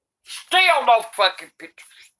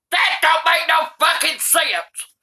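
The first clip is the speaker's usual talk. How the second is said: fed-up shout; 5 semitones higher than usual. Real, not acted. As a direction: yell it in disbelief. Granny fed up with book.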